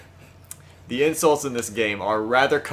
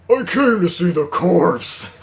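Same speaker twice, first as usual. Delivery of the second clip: creepy doctor voice; 4 semitones higher, 8 dB louder, slower than usual. Acted. Voices the doctor's entrance line.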